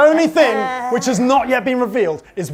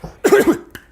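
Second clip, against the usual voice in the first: put-on throat clearing; zombie clearing throat; 8 semitones higher than usual. Bob the Zombie steps up to the mic, clearing his throat. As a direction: clear your throat before speaking. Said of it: "clears his throat".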